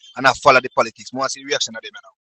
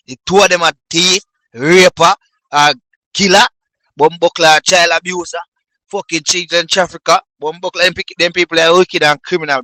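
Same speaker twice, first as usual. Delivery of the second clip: raised, louder rant of insults; higher, louder furious list; angry tirade; 4 semitones higher, 6 dB louder than usual. Real, not acted. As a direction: spit out each accusation louder.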